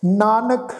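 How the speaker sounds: ਨਾਨਕ rising, then a stop; pause on ਨਾਨਕ. Shown as a demonstration. Teacher showing where to rest, pause after ਨਾਨਕ. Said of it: "ਨਾਨਕ ਸ਼ਬਦ ਦੇ ਉੱਤੇ ਵਿਸ਼ਰਾਮ".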